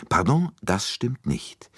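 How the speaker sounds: slow, firm correction; emphatic contradiction. A narrator's reading. Poirot firmly correcting Bouc, slow and deliberate. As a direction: lay it down deliberately, slowly. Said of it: "widersprach Poirot mit Nachdruck".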